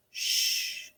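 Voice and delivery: a soft, voiceless "Sh" hush; letter sound. Shown as a demonstration. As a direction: hush out the "Sh" quietly. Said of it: "do our sounds".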